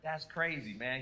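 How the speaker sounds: very low, soft muttering under the breath; muttered aside. Retold or imitated. Comedian at the slap, muttering low and soft. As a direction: grumble it quietly to yourself. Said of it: "I'm like".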